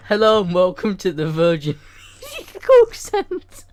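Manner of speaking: loud, high mock call-centre greeting; shouted send-up, pitch leaping at the end; mimicked scream. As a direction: imitate a screamed helpdesk greeting. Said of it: "You just screamed that in my face".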